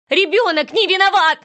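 high, loud pleading shout; mother screaming at the kidnapper, high and loud; desperate scream. Acted. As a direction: scream it across the pier. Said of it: "закричала я".

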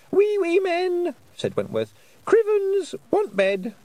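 put-on very high, slow small child's voice; a tired little boy; sleepy little boy. A narrator's reading. Wentworth speaking.

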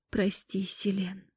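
guilty fairy apologizing almost inaudibly; quiet apology. Acted. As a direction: breathe the apology. Apology whispered.

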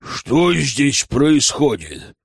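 slow, menacing question; a hint of a stern elder; stern demand. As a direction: demand an answer slowly and sternly. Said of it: "грозно вопросил Радомир".

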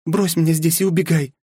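high princess voice, a touch of a sob; a princess pleading into his shoulder, lightly tearful; mildly tearful, high young woman's voice; sobbing plea. Acted. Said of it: "всхлипнула княжна".

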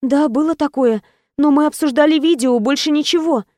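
heroine explaining. Acted.

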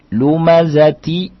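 "lumazati" slowed, syllable by syllable; connected reading. Shown as a demonstration. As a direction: draw out "lumazati" with an open final vowel. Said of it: "Nunnya tetap di".

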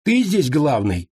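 high slow blunt question; rude question. A narrator's reading. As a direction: ask it cheekily and slow. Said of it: "не очень вежливый вопрос".

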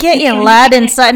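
mock Scottish. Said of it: "No, that's Scottish".

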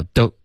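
"don't" cut off from the next syllable; blunt, disconnected. Shown as a demonstration. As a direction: imitate a learner's choppy "don't". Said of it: "这个就太钝了".

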